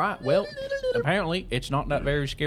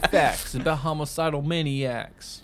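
slow, loud announcer intro; announcer hype; 3 semitones higher, 12 dB louder, slower than usual. Pretend. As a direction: boom out the segment title. Hypes up the segment title.

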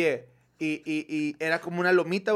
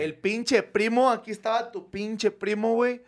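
shocked reveal; 5 semitones higher than usual. Real, not acted.

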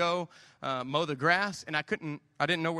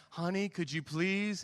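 slow, gentle, softer ask; gracious request; 3 dB quieter, slower than usual. Shown as a demonstration. Husband asks his wife gently, as the gracious way, slow and soft. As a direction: ask sweetly and slowly. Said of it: "a little more gracefully".

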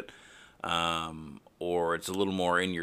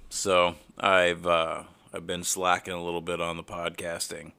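talking through a head cold; congested, sniffly voice; stuffy nose; 5 dB louder than usual. Real, not acted. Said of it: "cold symptoms that you might hear".

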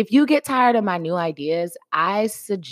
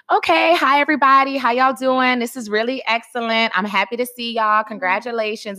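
higher-pitched, professional greeting voice; corporate America voice; 5 semitones higher than usual. Shown as a demonstration. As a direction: put on your uptown corporate voice. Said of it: "my corporate America voice sounds like".

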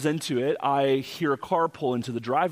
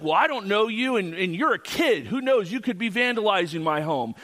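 higher-pitched mock suspicion; retold accusation; 7 semitones higher than usual. Homeowner doubting the boy's story, mock suspicious accusation. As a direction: imitate an owner challenging a kid.

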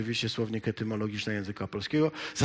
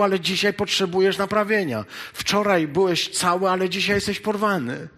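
high, louder preacher's appeal; fervent preaching; 6 semitones higher, 5 dB louder than usual. Acted. Preacher telling the faithful that life tears them daily, fervent. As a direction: drive it home with rising fervour.

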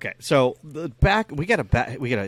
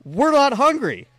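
put-on kids' reply; 12 semitones higher, 7 dB louder than usual. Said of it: "And they said out loud".

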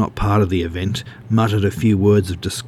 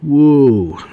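loud, high, drawn-out "whoa"; hammed-up mock amazement; 6 semitones higher, 7 dB louder than usual. A narrator's reading. Wood Duck pretends to be impressed by Ray, mocking. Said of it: "Wood Duck mocked".

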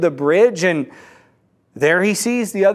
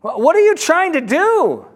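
yelling down; 7 semitones higher than usual. Acted. Confused man calling down to the dangling man, mock yell. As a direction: call down as if to someone far below. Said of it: "So he yells down".

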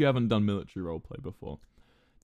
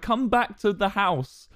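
higher, slow, drawn-out put-on coaxing; coaxing girl voice; 8 semitones higher, 3 dB louder, slower than usual. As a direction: lure him home, slowly. Girl insists he come home.

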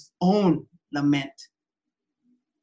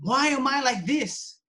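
lament prayer; 2 semitones higher than usual. Shown as a demonstration. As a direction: pray aloud as a model for the church. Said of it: "Cry out to him".

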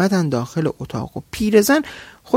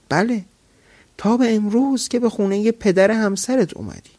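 raised, higher sultan's retort; sultan's exclamation; 5 semitones higher than usual. Acted. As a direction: throw her words back at her. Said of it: "فریاد زد".

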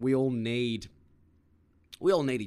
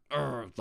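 short mock grumble; disgruntled grunt. Shown as a demonstration. Showing mild upset as against violent anger, disgruntled grunt. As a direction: grunt as if mildly put out. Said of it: "like, disgruntled".

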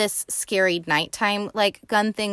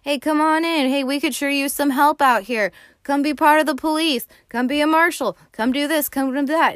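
higher, louder pleading townsfolk; eager townsfolk; 7 semitones higher, 4 dB louder than usual. Retold or imitated. Townspeople coaxing Wyatt Earp to town, eager and loud. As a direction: townspeople begging the famous lawman to join. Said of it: "everybody from the four corners of town is telling him".

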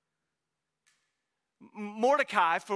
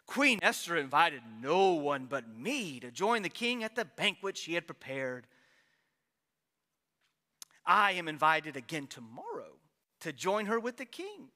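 boastful Haman; 6 semitones lower than usual. Acted. Preacher voicing Haman's boast.

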